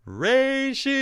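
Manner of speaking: high sung-out "Ratio!" like the Ricola horn call. Retold or imitated. Mocking a Twitter account, Ricola-commercial style "Ratio!" call. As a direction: belt it like the old cough-drop commercial. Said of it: "In the old Ricola commercial".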